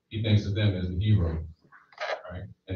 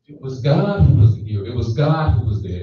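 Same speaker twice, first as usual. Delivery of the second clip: louder, driving proclamation; preaching emphasis; 2 semitones higher, 5 dB louder than usual. Real, not acted. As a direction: proclaim it to the whole church. Preacher's rising emphatic declaration.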